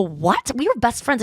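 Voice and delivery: rising, incredulous what; acted-out shocked protest; retold disbelief. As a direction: react to a betrayal, pitch climbing. Shocked at his girlfriend news.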